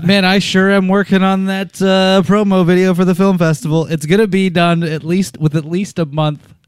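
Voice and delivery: mildly sarcastic assurance; lightly tongue-in-cheek promise; a little sarcasm. Real, not acted. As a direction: say it with a touch of sarcasm. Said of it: "said that with a little sarcasm".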